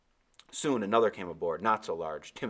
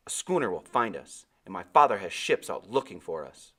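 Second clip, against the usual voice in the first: defiantly; 6 dB louder than usual. Acted. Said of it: "I said defiantly".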